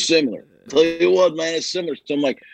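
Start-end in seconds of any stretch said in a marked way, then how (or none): 0.7-2.0 lightly voiced football coach; hint of a coach impression; John Gruden. Shown as a demonstration. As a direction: slip into the coach's catchphrase. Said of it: "Nicholson becomes John Gruden".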